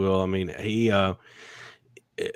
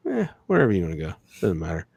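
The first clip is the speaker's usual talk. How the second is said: imitated apathy, sinking lower and softer; mock indifference; 4 semitones lower, 4 dB quieter, faster than usual. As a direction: leave the choice to them, uncaring. Acting out indifferent partner choosing dinner.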